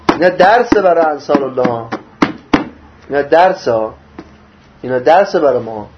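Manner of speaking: ordinary delivery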